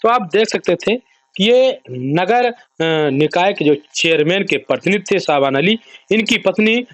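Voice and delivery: measured reporter's wrap-up read to camera; news report sign-off. Acted. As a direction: close the story like a field correspondent. Reporter's closing piece to camera. (न्यूज़ reporter की तरह समापन)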